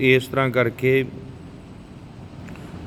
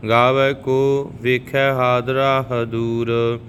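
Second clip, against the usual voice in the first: slow, even devotional recitation of gurbani; scripture recitation; much slower than usual. Shown as a demonstration. Teacher reciting Japji Sahib for the learners, calm and even. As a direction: recite each line steadily, like a prayer.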